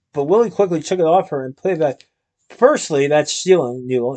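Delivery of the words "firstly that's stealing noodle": stern. Acted. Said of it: "he said sternly".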